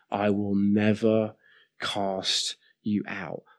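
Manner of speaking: deliberate promise, "never" set apart; emphatic answer. Retold or imitated. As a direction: pause after "never", then let the rest fall softly and slowly. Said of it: "answering that prayer emphatically".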